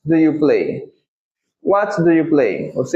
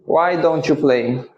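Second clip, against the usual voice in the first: slow, careful English question; slow model phrase; slower than usual. Shown as a demonstration. Teacher modelling the question slowly for students. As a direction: say it slowly for the class. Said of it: "Então fica".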